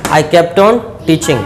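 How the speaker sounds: very slow, word by word; careful dictation pace. Shown as a demonstration. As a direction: spell it out slowly for the class. Teacher dictates English model sentence.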